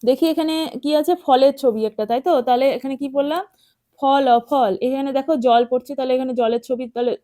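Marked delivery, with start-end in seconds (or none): 4.0-4.7 ফল spelt out sound by sound, then whole; spelling aloud. Shown as a demonstration. Teacher showing children how to read ফল, spelling aloud. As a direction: spell out ফল letter by letter, then blend it. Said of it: "এভাবে তোমরা আমার সাথে সাথে উচ্চারণ করো".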